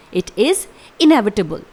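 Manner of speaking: slow, syllable by syllable; teacher's careful slow model; slow clear pronunciation. Shown as a demonstration. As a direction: spell it out with your voice for learners. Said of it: "इसका pronunciation एक बार फिर से सुन लीजिए".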